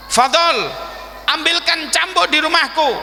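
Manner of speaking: acted command called across a room; calling an order. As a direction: send the assistant off firmly. Prophet orders his assistant.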